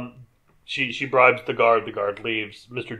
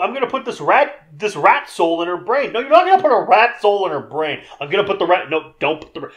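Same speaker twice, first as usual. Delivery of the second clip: high, insistent mock argument; acted-out bickering; 5 semitones higher, faster than usual. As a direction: argue both sides in a raised pitch. Acts out back-and-forth argument.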